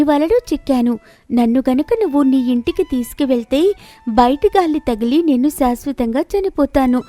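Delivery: a hint of a gentle pleading princess; lightly voiced mermaid princess. Mermaid princess calming the fisherman, lightly voiced. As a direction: soothe him, then plead for your life.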